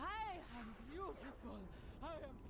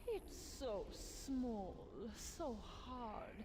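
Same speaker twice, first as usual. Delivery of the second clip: booming echoing villain monologue. Acted. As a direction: relish every word like a mad queen. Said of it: "Enough with the evil monologue".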